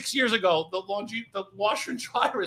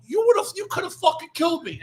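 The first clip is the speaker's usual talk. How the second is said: raised, high-pitched indignant outburst; re-enacted outrage at a near miss; retold protest; 7 semitones higher, 4 dB louder than usual. Retelling protest after being shot.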